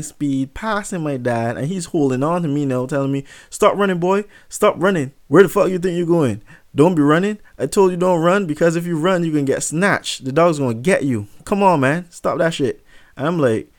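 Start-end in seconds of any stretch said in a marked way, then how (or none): 3.5-12.8 raised, higher-pitched reprimand; acted scolding dad. Dad holding on to his fleeing son, scolding. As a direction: order the boy to stop, punching each phrase.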